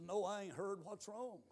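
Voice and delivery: very soft, retold question; hushed concern. Preacher asking Levi for the bad news, hushed concern. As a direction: ask it quietly and carefully.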